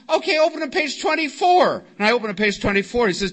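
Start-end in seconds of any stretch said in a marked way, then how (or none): 0.1-1.8 high-pitched retold order; impatient command. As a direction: act out a sponsor briskly ordering a pupil. Walter orders him through the book.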